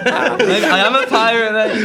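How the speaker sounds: loud, high mock pirate. Bandmate playing along after being teased, pirate voice. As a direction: play up a silly pirate accent. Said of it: "You sound like a pirate".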